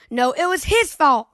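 put-on mild child's shouted retort; shouting. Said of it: "pointing at each other and shouting".

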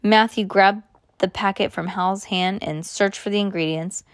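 usual speaking voice

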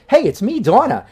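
Jersey Donna voice. Acted. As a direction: start Donna off with her Jersey greeting. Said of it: "That's why I always start it with".

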